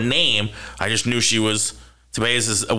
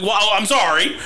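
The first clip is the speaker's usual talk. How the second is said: mock meek apology; 8 semitones higher, slower than usual. Apologising meekly to the lady.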